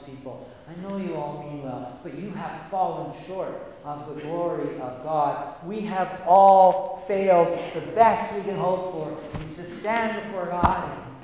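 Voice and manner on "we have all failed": loud emphatic. Real, not acted. Preacher stresses failure.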